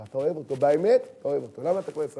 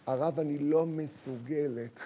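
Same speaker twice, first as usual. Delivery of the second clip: slow, drawn-out confession of inability; helpless mother; 3 semitones lower, 4 dB quieter, slower than usual. Acted. Mother telling the rabbi she cannot, slow helplessness. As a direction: stretch it out as if it is beyond you. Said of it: "חם אחד אמרה לי".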